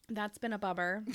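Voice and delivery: congested, blocked-nose speech; stuffy nose. Real, not acted. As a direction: talk through a stuffed-up nose. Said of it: "I can't even say bummer correctly".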